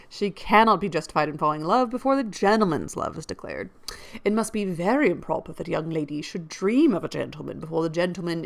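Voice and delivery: lively audiobook reading of a classic novel; expressive period-novel narration; story narration. A narrator's reading. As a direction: read the novel aloud with emphatic key words. Reads a novel aloud.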